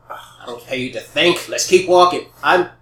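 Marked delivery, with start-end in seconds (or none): 0.1-1.5 cold whisper. Acted. Villain sneers at scout.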